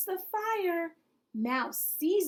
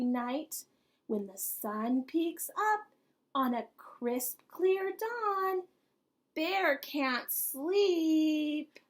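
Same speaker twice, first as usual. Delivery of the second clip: put-on cosy read-aloud for children; storybook narration. Reader narrates the ending of the bedtime story. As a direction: savour each line like a bedtime story.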